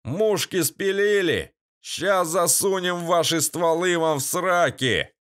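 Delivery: mock the cornered men; nasal thug. A narrator's reading. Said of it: "гнусавый". (гнусавая насмешка бандита)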